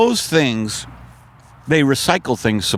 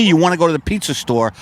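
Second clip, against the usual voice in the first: high, fast mocking quote; mocking outsider; 4 semitones higher, faster than usual. Mocking someone who says pizza store, fast. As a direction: rattle it off like a clueless outsider. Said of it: "If someone says to me".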